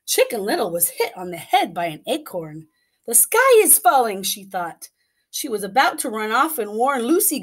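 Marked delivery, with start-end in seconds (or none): 3.1-4.2 high, loud panicked cry. Acted. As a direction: scream the news in panic. Chicken little panics.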